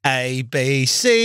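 put-on reciting letters in a British accent. British driver doing his ABCs for a cop, British accent. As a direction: recite the alphabet as a British motorist. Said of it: "He won't stop that fucking accent".

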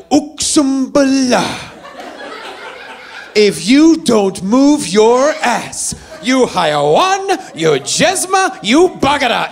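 slow, drawn-out mock yell of Arabic insults. Stepdad yelling at the kids like his wife, slow mock yell. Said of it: "I was yelling as loud as she was".

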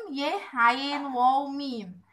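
slow, letter by letter: ي عين واو ميم; spelled out slowly. Shown as a demonstration. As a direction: spell each letter for the child, one at a time. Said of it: "spelling letters of يعوم". (تهجئة بطيئة حرفا حرفا)

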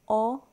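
"K-a-r-d" said sound by sound. Shown as a demonstration. Teacher to children, "K-a-r-d" sound by sound. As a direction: break "K-a-r-d" into separate sounds. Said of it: "Bontsuk őket hangokra".

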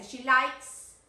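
"likes" with a strong final s; S sounded. Shown as a demonstration. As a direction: punch the s at the end of "likes". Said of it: "te faltó la S".

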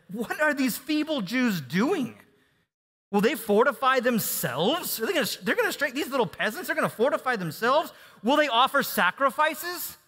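scorn the feeble builders; mocking enemy. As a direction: Sanballat jeering at the Jews, mocking and high. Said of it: "furious and very indignant, and he mocked".

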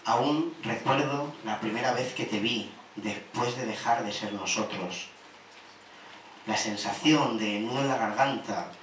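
measured spoken-word reading of a love poem; deliberate poetry delivery, swelling and easing; poem recital. Acted. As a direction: recite to a lost lover, phrase by phrase. Recites a poem to lost lover.

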